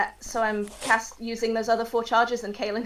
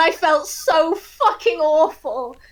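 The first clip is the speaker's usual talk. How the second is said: ordinary talk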